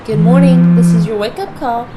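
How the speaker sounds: loud, high recorded wake-up message; hotel wake-up call. Acted. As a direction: sound like a phone recording.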